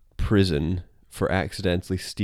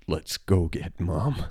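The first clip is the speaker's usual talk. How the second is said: flat defeated; slower than usual. Retold or imitated. Homer after eating a spoonful.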